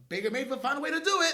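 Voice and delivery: loud, high, breaking into laughter; gleeful, loud, laughing punchline; laughing incredulity. Real, not acted. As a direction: build to a shout and crack up. Mocking an opponent's hilarious blunder.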